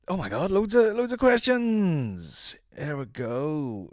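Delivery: high, drawn-out exclamation that slides back down; theatrical exclamation. Acted. Vlogger turning to listeners' questions, theatrical and drawn out. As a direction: draw out "loads of questions" in a big swoop.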